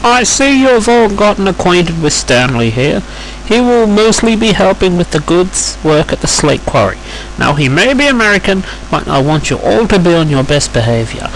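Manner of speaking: high-pitched, orderly boss voice; Thin Controller, firm. Acted. Controller asking Duncan to show Stanley around, high and firm. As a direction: give instructions in a high put-on voice.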